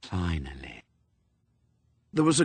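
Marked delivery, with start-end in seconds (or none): 0.0-0.8 hollow, dropping voice of Death, low at the end; Death, calm and cold. Acted. Death speaks.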